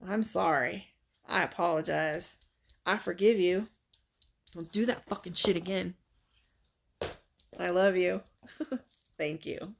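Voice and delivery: Ho'oponopono mantra. Real, not acted. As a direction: speak it gently like a prayer. Performing Ho'oponopono now.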